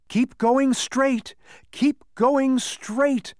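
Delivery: high, drawn-out calls; counseling mystery voice. Acted. Unseen voice directing travelers along the path, high slow urging. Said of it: "counseled the voice".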